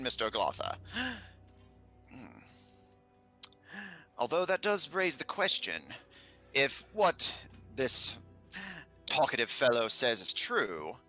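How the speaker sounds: ponderous scholarly figure, weighing each thought; musing learned character. Acted. Character answering Mister Glotha's observation, musing aloud. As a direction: muse aloud in character, with pauses. Game master voices a character.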